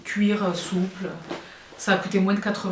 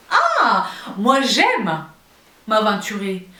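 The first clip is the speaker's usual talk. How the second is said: excited burst; much slower than usual. Real, not acted. Bursts into playful bold declaration.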